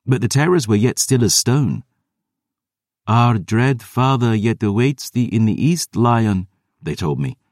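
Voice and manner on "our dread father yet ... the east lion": higher, cold undead warning; imperious vampire elders. A narrator's reading. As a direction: summon him east with menace.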